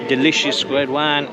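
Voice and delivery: hammed-up French accent, slow at first; playful fake French accent while sipping wine; mock French accent. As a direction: put on a joking French accent. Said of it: "I'm sorry, I'm probably gonna get canceled for that".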